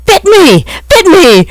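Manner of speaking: outraged squeal of a bitten pixie; shouting pixie. A narrator's reading. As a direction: pixie yelling that the cat bit him. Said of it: "Ruan shouted at Reg".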